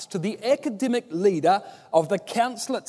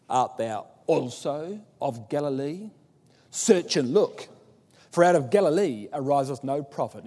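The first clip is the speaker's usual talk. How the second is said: disgusted retort. Retold or imitated. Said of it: "they spit that out in disgust".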